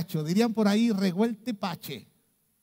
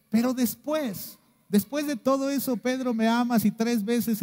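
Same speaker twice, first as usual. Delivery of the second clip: énfasis creciente; 5 semitones higher, 4 dB louder than usual. Acted. Jesús pregunta a Pedro.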